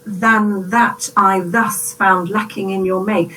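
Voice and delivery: slow, heavy, deliberate reading of the line. Shown as a demonstration. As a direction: weigh every single syllable. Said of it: "that does sound really deliberate".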